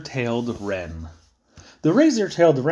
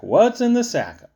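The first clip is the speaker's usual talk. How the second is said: higher, louder pestering repeat of What's in the sack; mocking high nagging; 9 semitones higher, 4 dB louder than usual. Narrator mimics people pestering him about the sack, high and nagging. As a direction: nag it up high like an annoying asker.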